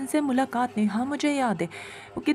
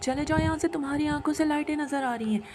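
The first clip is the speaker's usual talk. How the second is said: raised, panicky voice crying out at the spirit; frantic yelling; 3 semitones higher than usual. Acted. Husband shouting at the spirit in terror, frantic yell. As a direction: shout it like you finally recognise the monster. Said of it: "वो इतना चीख रहे थे".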